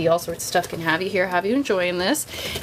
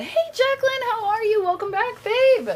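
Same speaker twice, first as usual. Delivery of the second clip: high, bright cabin crew greeting; flight attendant; 13 semitones higher than usual. Acted. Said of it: "it sounded like a flight attendant".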